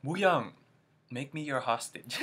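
loud swooning call to a singer; hammed-up fangirl plea; mock flirty fan call; corny fan line. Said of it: "corny Wooyoung jokes".

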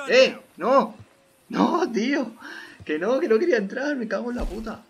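high, loud protest at the game; frantic, high-pitched objecting; exasperated yelling. Real, not acted. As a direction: yell in frustration, pitch way up. Protests at what the game does.

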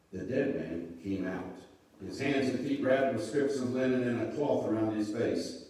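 measured Bible story narration; scripture reading. A narrator's reading. Pastor reading the raising of Lazarus to listeners, measured narration. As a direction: read it out clearly, phrase by phrase.

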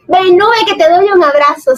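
a hint of Pachín's fond welcome; affectionate invitation. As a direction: coax her in for a hug, mock-sweet. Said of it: "Siento que es más, más como".

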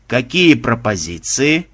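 slow, weary sigh of a question. Acted. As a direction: ask it slowly with a sigh. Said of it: "вздохнул Банзай".

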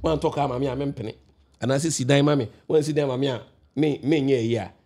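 mock demanding girlfriend; demanding woman's voice. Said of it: "ɔno deɛ ɔse".

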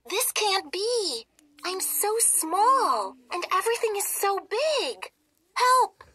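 a tiny mouse screaming for help. Acted. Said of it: "she screams in a tiny voice".

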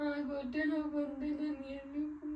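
worried words giving way to tears; tearful. Real, not acted. Pregnant wife fears being left alone, tearful. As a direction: start to cry as you ask. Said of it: "ಅಳ್ಬೇಡ, ಅಳ್ಬೇಡ".

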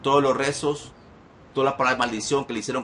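exorcism declaration. Real, not acted. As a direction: declare each item firmly, with pauses between phrases. Cancels curses in exorcism.

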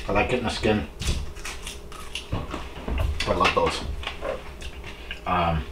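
chewing while talking; talking with mouth full of food. Real, not acted. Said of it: "I'm talking with my mouth full".

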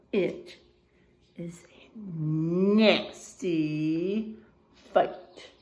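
slow hushed whisper of suspense. Acted. Dramatic fight in story.

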